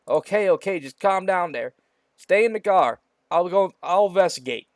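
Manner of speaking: steady her down, lightly in character; calming sheriff. Acted. Sheriff calms the frightened girl, lightly voiced.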